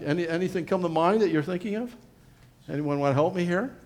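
ordinary delivery

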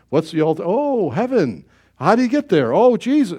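a hint of a curious boy hearing the gospel; lightly voiced questioning child; puzzled young self. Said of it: "and I'm going like".

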